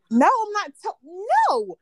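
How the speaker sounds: laughing refusal to a friend; refusing. Real, not acted. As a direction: shut the request down. Refusing to tell story.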